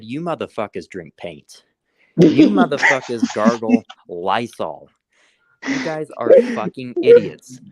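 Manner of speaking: building to a loud high yell; retold insults. Cursing out the animal control workers, mock yelling. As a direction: escalate from a sneer to a yell. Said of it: "I said".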